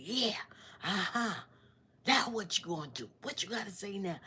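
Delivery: mocking, taunting voice; jeering and high; taunting attacker. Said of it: "he just saying".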